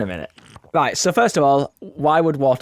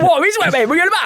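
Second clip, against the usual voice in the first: incredulous; 5 dB louder, much faster than usual. Real, not acted. Baffled reaction to silly question.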